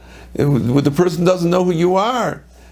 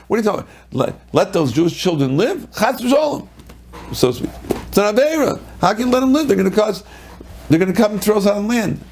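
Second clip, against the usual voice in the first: higher, scandalized voice of Pharaoh; mock indignant Pharaoh; 5 semitones higher, faster than usual. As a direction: play the outraged ruler, hammed-up. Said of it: "Paro made a justification".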